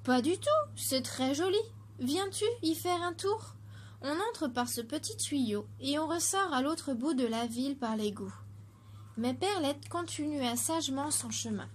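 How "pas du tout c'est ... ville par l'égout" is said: a touch of a sly tempter; tempting city voice. Acted. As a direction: lure her in brightly.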